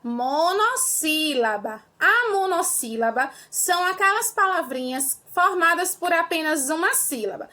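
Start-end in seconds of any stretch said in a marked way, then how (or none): 0.0-1.8 drawn out word by word; slow and clear. Shown as a demonstration. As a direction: say it slowly for the class. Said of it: "A primeira é chamada de". (bem devagar e claro)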